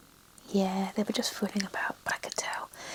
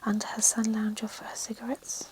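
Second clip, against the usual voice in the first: whispered reading, every word unvoiced; ASMR whisper. Real, not acted. Author reading her novel to relaxing listeners, whispered throughout. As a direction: read the story in a hushed ASMR whisper.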